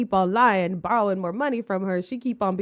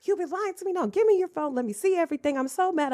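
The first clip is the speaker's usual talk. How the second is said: exaggerated angry woman; 8 semitones higher than usual. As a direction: imitate an overwrought woman confronting her man. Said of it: "try to, like, over-exaggerate it".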